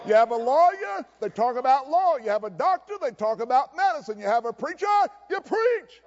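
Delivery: punchy preacher's build to a high finish; emphatic preaching. Real, not acted. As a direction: drive the list home from the pulpit.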